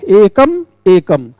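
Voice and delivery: "एकम एकम" said slowly, each एकम set apart clearly; slow deliberate repetition. Shown as a demonstration. Teacher showing students the doubled word, slow and deliberate. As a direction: spell out एकम एकम slowly for the class. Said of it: "एक शब्द को हमने दो बार कहा".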